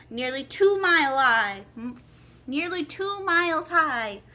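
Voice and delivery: high, loud queen voice. A narrator's reading. Queen adding to the King's claim, high and loud. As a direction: cut in as a sharp queen.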